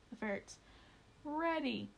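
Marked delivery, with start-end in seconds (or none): 1.2-1.9 commanding shout. A narrator's reading. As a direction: call the first command to the ferrets. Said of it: "Monty quickly commanded".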